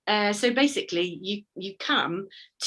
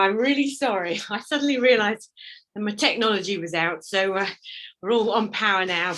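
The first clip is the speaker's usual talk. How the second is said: breathless, still catching breath; puffing between words; 3 semitones higher, 4 dB louder than usual. Real, not acted. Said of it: "sorry, I'm a bit out of breath".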